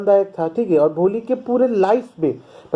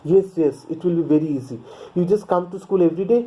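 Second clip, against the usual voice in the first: slow story reading; much slower than usual. A narrator's reading. Reads English story text slowly.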